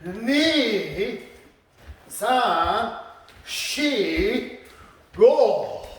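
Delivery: stretched-out count for slow technique. Shown as a demonstration. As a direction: draw out each number, leaving space between. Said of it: "And slowly".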